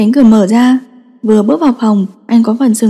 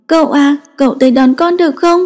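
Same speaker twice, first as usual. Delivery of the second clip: put-on high, childlike pleading; a small boy begging his uncle to come; sulky child asking to be fetched; little boy voice; 4 semitones higher than usual.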